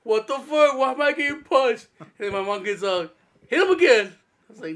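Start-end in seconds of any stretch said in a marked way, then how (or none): 0.0-1.9 higher-pitched mock indignant protest; retold protest. Punched brother protesting in retold scene. 3.5-4.1 higher, louder mock order; imitated command. Mom ordering a hit, retold.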